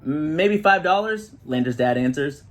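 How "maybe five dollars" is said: dad voice. A narrator's reading. Dad answers in story.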